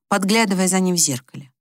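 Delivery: ordinary delivery, nothing marked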